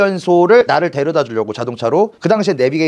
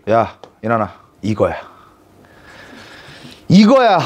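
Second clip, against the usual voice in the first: friend's excited call; 7 semitones lower than usual. Retold or imitated. Friend shows him marine video.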